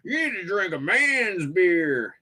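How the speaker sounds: high, drawn-out mock Scottish; hammed-up Scottish buddy; Scottish accent. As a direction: stretch it slowly in a put-on Scottish accent. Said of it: "this is my Scottish accent".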